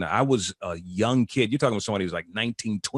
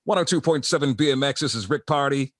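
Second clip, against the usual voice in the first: a hint of a teen doing a DJ ident; lightly voiced radio announcer call; little radio thing; 4 semitones higher than usual. Shown as a demonstration. Teen shows off for older cousin, mock DJ voice. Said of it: "do that little thing you do on the radio".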